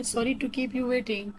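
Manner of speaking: very slow, every word separated; robotic slow reading. Shown as a demonstration. Teacher modelling an apology for lateness, slow and robotic. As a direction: spell it out evenly like a machine. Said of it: "थोड़ा robotic वे में पढ़ के बता रही हूँ".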